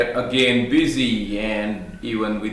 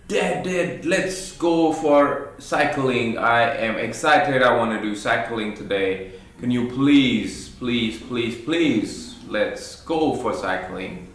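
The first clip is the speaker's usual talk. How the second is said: put-on pleading kid. Son pleading with dad to go cycling, mildly excited. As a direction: plead please please like a child.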